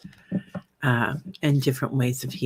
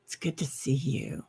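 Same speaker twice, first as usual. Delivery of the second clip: whispering; 8 dB quieter than usual. Real, not acted. Aside to the viewer.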